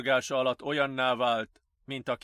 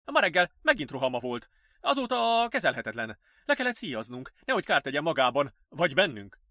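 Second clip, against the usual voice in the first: worried nurse; 3 semitones higher, 4 dB louder than usual. Acted. Nurse explaining the attack to the doctor, worried. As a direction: report it as an uneasy nurse.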